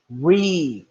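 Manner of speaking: "Re" with a held long E; long vowel. Shown as a demonstration. Teacher showing the class a long vowel, stretching "Re". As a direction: draw out the vowel of "Re" as "ree". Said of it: "that's a long vowel sound".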